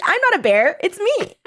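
imitating her in a high, silly voice; high mock voice. Friend mimics the bear-coat contestant, high and silly. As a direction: pitch it way up, playful. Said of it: "She's like".

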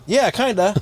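high-pitched interjection in a friend's voice; imitated eager butting-in; Poopies. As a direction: chime in high, like an oblivious pal. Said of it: "you just hear Poopies going".

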